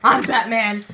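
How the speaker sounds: a hint of a low superhero; Batman. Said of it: "You're Batman".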